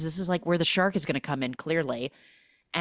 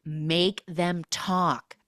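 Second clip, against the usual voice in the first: slow quote; much slower than usual. Retold or imitated.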